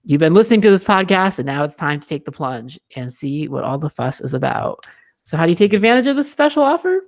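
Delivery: bright salesman ad read; chipper 1950s ad. Acted. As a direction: sell it like an old radio spot. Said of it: "read this like it's a script".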